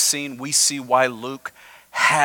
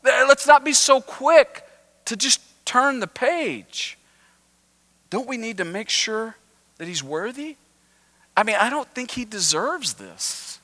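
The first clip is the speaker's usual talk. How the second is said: grudging Pharisees; 9 semitones higher than usual. Retold or imitated. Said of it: "They're thinking".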